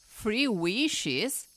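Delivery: gasped surprise. A narrator's reading. Child to genie on hearing of three wishes, mildly amazed. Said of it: "I gasped".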